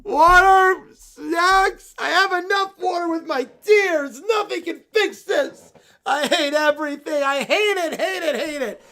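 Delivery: whining heartbroken bear fan; sulky whine. Acted. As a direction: mope and whine like a child losing. Bear wails dramatically.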